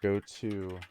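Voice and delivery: talking while brushing teeth with a toothbrush; words muffled by a brushing toothbrush. Real, not acted. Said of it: "you can hear it".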